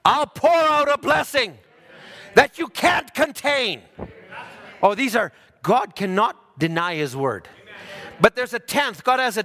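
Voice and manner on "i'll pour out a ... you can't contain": raised, booming voice of God, slow at the end; voicing God's promise. Preacher voicing God's promise to the tither, raised and slow. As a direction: proclaim it as God speaking, big and slow. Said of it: "and he says".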